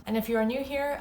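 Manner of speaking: whispered aside. Shown as a demonstration. Host whispering to new viewers, whispered. Whispered repeat of intro line.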